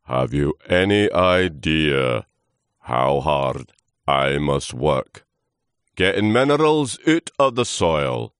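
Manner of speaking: slow, loud, laboured character voice; groaning old trunk. Acted. Old trunk complaining to Lewis of hard work, groaning. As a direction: groan it out slowly and heavily. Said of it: "the trunk groaned".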